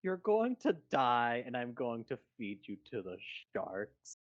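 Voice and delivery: put-on slow, loud gloating old hag; gleeful villain. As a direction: crow over the victim like a witch.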